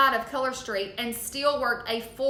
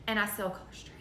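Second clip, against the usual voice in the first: imitated whisper; 3 semitones lower, 8 dB quieter, faster than usual. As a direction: trail into a hushed, hurried whisper. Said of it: "like, she would whisper it".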